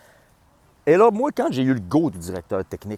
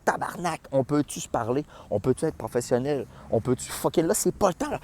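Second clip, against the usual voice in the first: exasperated; 4 semitones higher than usual. Retold or imitated. Retelling his own exasperation.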